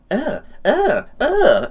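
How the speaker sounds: high strained uh uh uh; disgusted grunts. Retold or imitated. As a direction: gag like a bad taste. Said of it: "it's one of those, like".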